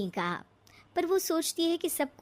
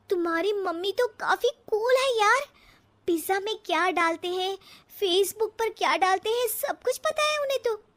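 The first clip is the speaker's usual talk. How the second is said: rising higher and brighter in disbelief; excited amazement; 5 semitones higher than usual. Acted. Bride marvelling to her husband about his mother, higher and excited. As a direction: gush to him about his cool mother.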